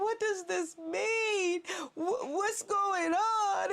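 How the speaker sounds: slow, tearful questioning; mock distressed plea. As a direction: drag it out near tears. Crying out to the Lord.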